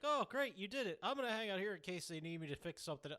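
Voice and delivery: high mock cheery NPC; chirpy oblivious helper voice; Marcus voice. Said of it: "Marcus, is like".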